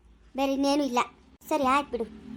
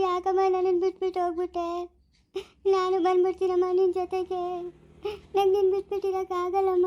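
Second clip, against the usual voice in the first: keen for your dead mother; wailing lament; 4 semitones higher than usual. Acted. Daughter laments to her dead mother, wailing in grief.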